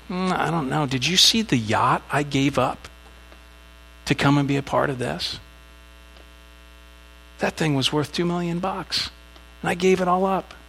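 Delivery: reluctant, self-pitying grumble, voice rising; whiny complaint. Retold or imitated. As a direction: sulk about the yacht you gave up. Rescued man complaining about chores.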